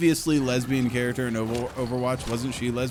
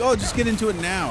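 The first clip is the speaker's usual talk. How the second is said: high, louder pushy voice; imitating people; 10 semitones higher, 4 dB louder than usual. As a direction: mimic people urging him on. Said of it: "A lot of people say".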